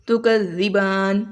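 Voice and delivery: slow, last vowel of "زبان" held two counts; short elongation. Shown as a demonstration. Teacher showing a two-count stop, last vowel moderately elongated. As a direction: stretch the final aa of "زبان" briefly, then stop on n. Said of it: "اگر دو حرکت کے مطابق اسے لمبا کریں".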